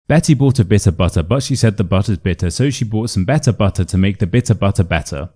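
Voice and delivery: quick tongue twister, every T in "butter" sounded as a true T; crisp T sounds. Shown as a demonstration. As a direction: rattle off "Betty bought a bit of butter" with British T's. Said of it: "good for practicing that T sound".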